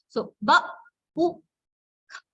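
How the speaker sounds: "ba, u, ka" split into sounds; sounding out words. Shown as a demonstration. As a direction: sound out "ba" "u" "ka" with pauses. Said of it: "encourage the children to blend".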